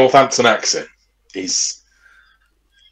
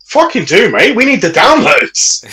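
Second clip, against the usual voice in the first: high, drawn-out pleading for downloads; mock protest; 8 semitones higher than usual. Co-host urging the other to listen, mock protest. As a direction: urge him on, pitched up.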